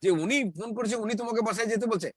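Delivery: imitating a boss scolding, high pitched; reproachful boss. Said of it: "বলার পরে বলছে". (বসের হালকা অভিনীত ভর্ৎসনা)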